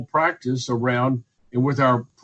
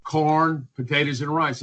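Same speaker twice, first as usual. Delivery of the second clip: facetious advice. Acted. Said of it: "And I'm saying that facetiously".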